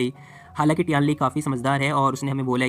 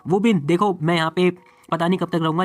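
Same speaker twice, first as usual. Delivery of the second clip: shouting; 3 semitones higher, 4 dB louder, slower than usual. Acted. Boy calling down to his friends to leave, loud and slow. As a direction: shout the words across so they carry. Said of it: "वो चिल्ला रहा होता है".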